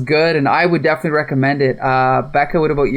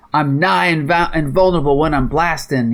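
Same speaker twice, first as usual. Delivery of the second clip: put-on terrible Cannonball accent. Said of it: "that's a terrible accent".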